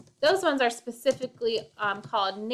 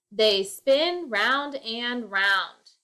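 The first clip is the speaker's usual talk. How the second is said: slow poem reading; much slower than usual. Shown as a demonstration. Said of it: "Notice how I did not say".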